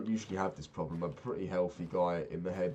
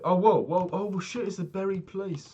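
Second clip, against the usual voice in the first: much higher and louder, slowing on the last words; excited surprise; 13 semitones higher, 10 dB louder, slower than usual. Real, not acted. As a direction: yelp it out as you stumble on treasure. Finds buried place in game.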